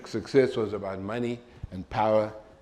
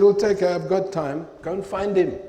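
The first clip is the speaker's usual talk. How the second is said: much louder, higher, commanding; firm loud insistence; 8 semitones higher, 7 dB louder than usual. Retold or imitated. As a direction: order him to go find the boss. Insisting he find the boss.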